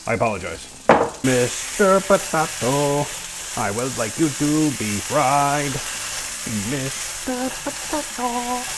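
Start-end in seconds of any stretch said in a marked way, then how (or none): 1.2-8.6 slow, stretched mock-formal call; playful potato address. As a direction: croon to the potato slowly.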